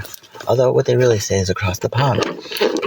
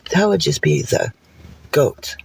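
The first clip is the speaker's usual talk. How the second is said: fairy thinking; 5 semitones higher than usual. Acted. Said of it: "And the fairy thought".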